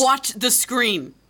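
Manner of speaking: Watch the screen said slowly, each word pressed down hard; a slow hard order with Watch hit firmly; slow firm command. Acted. Girlfriend orders him to watch the screen, slow and hard.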